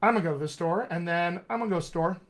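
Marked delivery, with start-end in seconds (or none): 0.0-0.9 "I'm gonna" smushed, "to the" kept; casual "I'm gonna go to the store", first step of smushing; lightly reduced connected speech. Shown as a demonstration. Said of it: "I could even do it further". 1.5-2.2 "to the" swallowed between "go" and "store"; "go to the store" collapsed to "go store"; smushed connected speech. Shown as a demonstration. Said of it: "Smush it even further".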